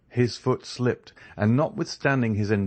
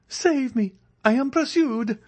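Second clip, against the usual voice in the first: much higher, louder desperate begging; hand-clasped plea; 4 dB louder than usual. A narrator's reading. Andrea pleads with the ladies to hide him, frantic. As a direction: implore them, hunted and frantic. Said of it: "said Andrea, clasping his hands".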